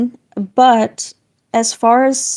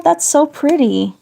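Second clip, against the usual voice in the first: excited; 5 semitones higher than usual. Real, not acted. Gushing over viewer's drawing.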